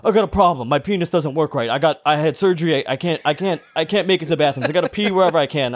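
imitated Puerto Rican man getting angry; angry Puerto Rican accent. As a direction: plead excuses in a mock Puerto Rican accent. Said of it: "I can tell he's getting angry".

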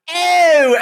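long drawn-out crowd call; crowd shout. Pretend. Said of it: "get a bunch of Aussies to go".

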